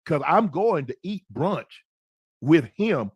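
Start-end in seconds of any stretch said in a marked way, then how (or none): none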